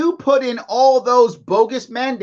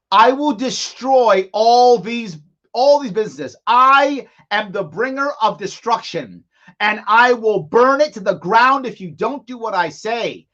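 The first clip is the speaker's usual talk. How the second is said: ruthless tyrant. Retold or imitated. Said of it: "He just said".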